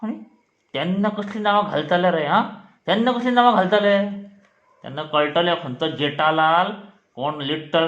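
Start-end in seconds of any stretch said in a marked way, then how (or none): 2.9-4.1 higher, quick, indignant repeat; mock scolding. Teacher grilling pupils about silly screen names, mock scolding. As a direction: press the question with raised pitch, fast.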